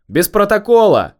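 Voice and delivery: loud, high-pitched call; parting shout. A narrator's reading. Inspector calling after the beaten man, shouting high and loud. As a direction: shout it after him as he leaves. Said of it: "крикнул я на прощание".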